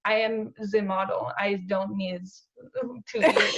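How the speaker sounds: imitating a Russian roommate; roommate's matter-of-fact Russian accent, mimicked. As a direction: put on a light Russian accent. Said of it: "she was from Russia, and she was just like".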